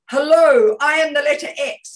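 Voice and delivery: high, booming, stretched-out hello; big energetic shout. Shown as a demonstration. Coach showing a webinar audience how to project, loud shout. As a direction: announce yourself like a giant letter X. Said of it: "I want you to look at the camera and say".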